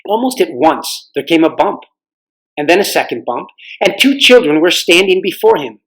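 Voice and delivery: gentle, even storybook telling; reading to children. A narrator's reading. Reader telling kids the Narnia chapter, storybook narration. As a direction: tell it like a bedtime story.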